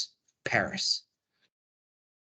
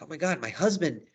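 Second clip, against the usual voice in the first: raised, louder mock distress; acted dismay, higher and emphatic; Juliet losing it; 5 semitones higher, 5 dB louder than usual. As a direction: play a bride in a mild panic. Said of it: "Juliet's losing it".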